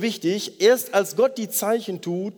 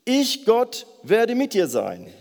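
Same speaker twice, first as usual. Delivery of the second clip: voice of God; 3 semitones higher than usual. Retold or imitated. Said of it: "Gott sagt ihm noch einmal".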